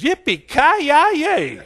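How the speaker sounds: very drawn-out, high, loud holler; Texas cowboy whoop. Acted. Preacher celebrating as they say in Texas, playful whoop. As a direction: stretch it out like a rodeo cheer. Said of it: "Or as we say in Texas".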